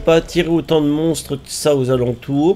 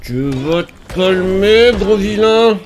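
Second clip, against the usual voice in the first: mock scolding; 3 semitones higher, slower than usual. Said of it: "scolding a monster like a child".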